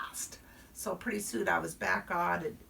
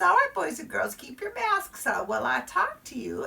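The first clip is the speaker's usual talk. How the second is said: teacher addressing class; 7 semitones higher than usual. Acted.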